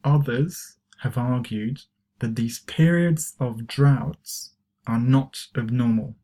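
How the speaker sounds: slow, spaced-out teacher's repeat; unhurried pronunciation demonstration; slow model reading. Shown as a demonstration. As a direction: read it slowly for learners to follow. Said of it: "try to pronounce these expressions".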